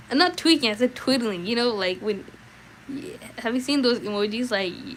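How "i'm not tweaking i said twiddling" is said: indignant correction. Real, not acted. Correcting chat.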